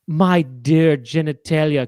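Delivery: slow grand-lady voice; society dame. Pretend. Dame calling the uncle, slow and grand. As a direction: stretch it out like a posh matron. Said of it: "she goes".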